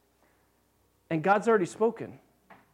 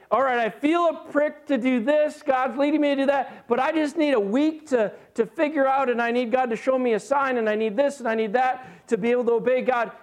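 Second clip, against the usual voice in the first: higher-pitched run of excuses; mock stalling; 4 semitones higher than usual. Hesitant believer bargaining with God for time, mock stalling. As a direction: act out a believer putting God off.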